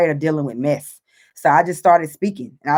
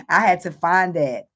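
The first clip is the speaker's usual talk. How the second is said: laughing through tears. Real, not acted.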